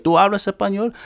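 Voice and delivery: high-pitched questioning stranger; imitated Spanish speaker. Stranger coming up to ask about Spanish, imitated in a high voice. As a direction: pitch it up as someone asking in Spanish. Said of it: "you come up to me and you're like".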